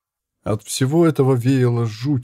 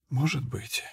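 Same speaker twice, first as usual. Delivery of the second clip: indifferent; 9 dB quieter than usual. Acted. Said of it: "безразлично отозвалась девушка".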